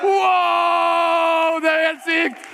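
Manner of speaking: loud, high hammed-up "wow, it's insane!"; mock amazement. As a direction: overplay the thrill like it's a miracle. Mock amazement at a plain black hat.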